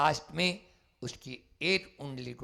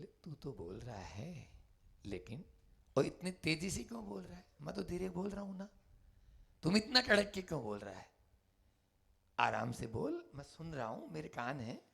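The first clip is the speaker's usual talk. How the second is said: softer, calm rebuke; gentle; 3 semitones higher, 7 dB quieter, faster than usual. Acted. The Buddha calmly telling the bandit to speak softly. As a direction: hush him down gently.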